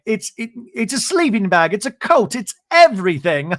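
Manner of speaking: high, loud playful Bronwyn; mock excited. Bronwyn bragging about her coat, high and playful. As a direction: show off the coat with glee.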